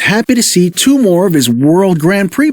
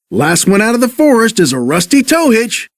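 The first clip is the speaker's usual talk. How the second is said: exclaimed; 6 semitones higher, faster than usual. Acted. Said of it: "exclaimed Mater".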